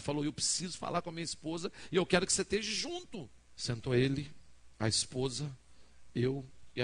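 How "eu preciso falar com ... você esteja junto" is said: higher, insistent plea building to the end; urgent mock plea, climbing on the last words; retold desperate plea. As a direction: imitate a desperate man begging for support. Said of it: "ele tava chorando, desesperado".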